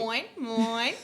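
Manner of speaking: pelican in Finding Nemo. Retold or imitated. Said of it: "sound like the pelican in Finding Nemo".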